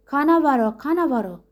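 high, loud bird squawk; parrot's cry. A narrator's reading. Parrot calls for help as Zorba rages, squawking high. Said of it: "فریاد کشید".

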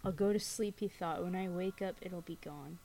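spooky storyteller reading aloud; story narration. A narrator's reading. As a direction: tell it like a campfire ghost story. Reads scary story aloud.

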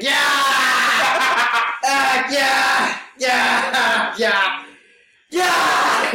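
high, drawn-out bawling wail; mock crying. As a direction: imitate a man crying his ass off, hammed-up. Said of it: "Mister Ross is fucking crying".

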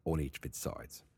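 attempted Australian accent, reading aloud. Shown as a demonstration. Host tries Australian for the cage rules, Australian accent. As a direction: try an amateur Australian reading. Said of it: "I'm gonna try to do Australian".

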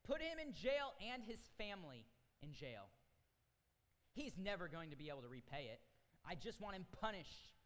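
furious shout to throw him in jail; angry king. Acted. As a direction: bellow the sentence as an enraged king. King orders man jailed.

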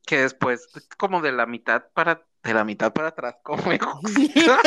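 hiccuping between words; with hiccups. Real, not acted. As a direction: talk with hiccups. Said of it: "me matas con el hipo". (con hipo)

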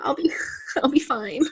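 faint, breath-only plea breaking into a laugh; mock weak whisper. Mimicking the woman left behind, mock whisper. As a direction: whisper it like a hammed-up brave goodbye. Acting the wife urging him on.

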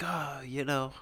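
put-on lightly done British accent; retold faux-British small talk. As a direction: imitate a British exchange student. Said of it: "put that accent back on".

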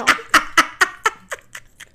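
loud high-pitched burst of laughter. Real, not acted. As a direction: crack up out loud.

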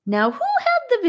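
hammed-up mock deep voice, playful; a silly put-on voice with a light playful lift. A narrator's reading. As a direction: put on a goofy, overly deep voice for fun. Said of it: "in a silly, overly deep voice".

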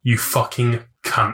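slow, put-down "You fucking cunt"; offensive insult. Shown as a demonstration. Demoing the insult meant to offend, slow put-down. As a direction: spit it out slowly to offend. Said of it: "I'm saying this to offend you".

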